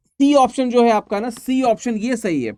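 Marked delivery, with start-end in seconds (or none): none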